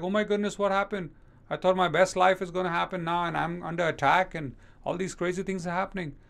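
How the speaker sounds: high mock alarm, a hammed-up fret; mock shocked panic. Preacher mimicking a shocked believer, high mock panic. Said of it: "Don't get shocked like".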